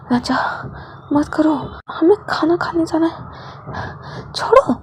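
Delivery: slow breathless whisper pleading; whispered protest. Acted. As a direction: hush it, pleading, slowly. (धीमी, फुसफुसाती मिन्नत)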